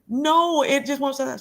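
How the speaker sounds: high-pitched retold wail, easing down; dramatic crying. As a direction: imitate helpless tearful protest. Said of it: "I was dramatically crying".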